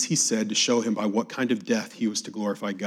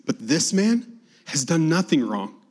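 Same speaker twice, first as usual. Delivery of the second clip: raised, insistent scripture-reading rebuke; rebuking; 5 semitones higher, 7 dB louder than usual. A narrator's reading. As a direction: read the criminal's rebuke higher, with mild force. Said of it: "the other rebuked him".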